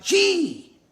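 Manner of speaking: high, loud, drawn call; one piercingly high holler; shouted command. Acted. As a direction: shout a steering order to the oxen. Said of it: "cracked his whip and shouted".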